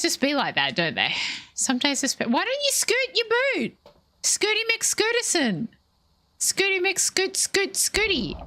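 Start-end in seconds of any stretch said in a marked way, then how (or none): 2.3-8.3 high singsong teasing of a chatter. Pretend. Teasing the chatter to scoot, in a high cutesy voice. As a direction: tease them in a high cutesy voice.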